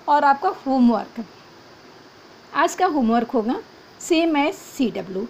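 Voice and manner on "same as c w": "same as C W" said very slowly, word by word; slow, spelled out. Shown as a demonstration. Teacher dictating the homework note to students, very slow. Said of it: "same as C W का मतलब है".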